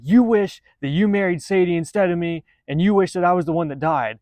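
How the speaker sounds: toned-down imitation of screaming; mock screaming. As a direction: lightly act out a paranoid wife accusing her husband. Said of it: "she starts screaming at her husband".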